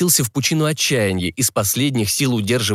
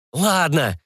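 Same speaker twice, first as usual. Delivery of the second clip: reluctant higher-pitched assent; grudging, squeezed out; 6 semitones higher than usual. Acted. Seller giving in to a hard bargainer, grudging. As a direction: force the agreement out. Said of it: "выдавил из себя продавец".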